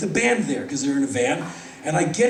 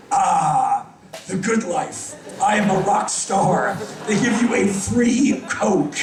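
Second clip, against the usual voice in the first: slow, satisfied proclamation; young singer smugly savors his free Coke at the bar; mock grandeur; slower than usual. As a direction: savor it like a king.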